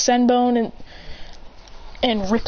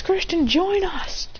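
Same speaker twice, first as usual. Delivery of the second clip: higher, slow mock call; lightly acted beckoning, pitched up; calling over; 8 semitones higher, slower than usual. Character calls friend over.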